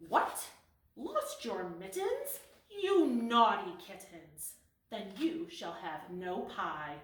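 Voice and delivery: a hint of a cross mother; scolding mother cat. Mother cat scolding her careless kittens, mock-stern.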